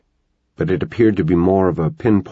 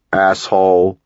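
muffled yell; 4 dB louder, slower than usual. Acted. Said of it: "came a muffled yell from the dark".

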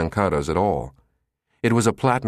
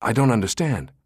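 stammering; 3 semitones higher than usual. A narrator's reading. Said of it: "he stammered".

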